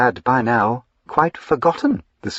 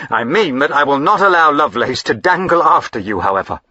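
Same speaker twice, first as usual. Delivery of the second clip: firm refusal; 5 semitones higher, 5 dB louder, faster than usual. Acted.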